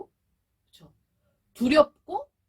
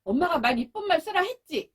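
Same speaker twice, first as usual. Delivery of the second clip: scolding mother; 4 semitones higher than usual. Retold or imitated. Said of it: "또 엄마가 말을".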